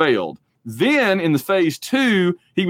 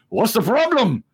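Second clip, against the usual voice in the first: lightly voiced challenge, pitched up; Sean Connery; 7 semitones higher than usual. Film star daring a critic to complain, challenging. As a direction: dare them to object. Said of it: "just dares you to say anything".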